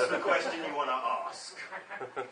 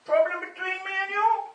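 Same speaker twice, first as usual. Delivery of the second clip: put-on dad's Indian accent; 11 semitones higher, 8 dB louder than usual. Father scolding his son over his bad accent, in Indian accent. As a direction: lecture your son in a heavy Indian accent. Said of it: "you do my accent so badly".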